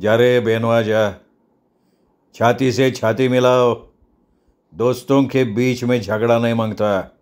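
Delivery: measured, authoritative order; commanding gang boss. Acted. Gang boss orders quarrelling friends to embrace, commanding. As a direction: issue the order with unhurried weight. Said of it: "लुकानं हुकूम सोडला".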